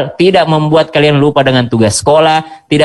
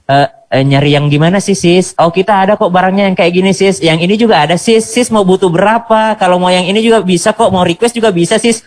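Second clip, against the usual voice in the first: lightly voiced sweet, helpful admin; gentle online seller; 2 semitones higher than usual. Online shop admin to a customer, gently obliging. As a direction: politely coax the customer along. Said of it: "ngomongnya lembut, bahasanya bagus".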